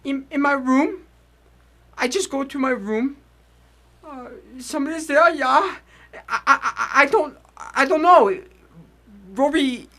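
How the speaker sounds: put-on weak old immigrant. Old immigrant in hospital bed.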